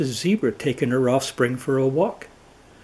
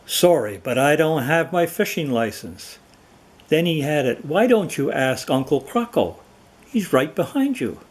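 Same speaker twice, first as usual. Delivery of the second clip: mocking; 2 semitones higher than usual. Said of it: "replied mockingly".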